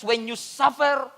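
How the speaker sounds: slow, deliberate first reading of the verse; solemn slow verse opening; slow scripture reading. Shown as a demonstration. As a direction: draw out "When you suffer" slowly, leaning on "suffer". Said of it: "ang sabi ng First Corinthians".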